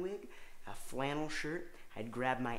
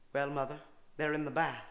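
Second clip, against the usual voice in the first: son's voice. Pretend. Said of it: "do that kind of loud".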